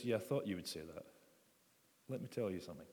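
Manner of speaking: gently indulgent, as if expecting it; patient smile. Acted. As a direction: answer through a knowing, patient smile. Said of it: "this sort of patient smile".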